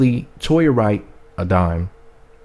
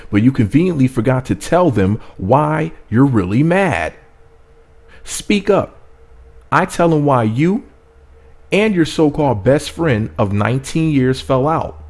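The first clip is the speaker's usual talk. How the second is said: raised, heated mock reading of a clapback; dramatic, higher-pitched reading of an angry message; reading Toya's angry post; 5 semitones higher than usual. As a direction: read it like you're the one firing back. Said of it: "here's Toya's response to Tamar".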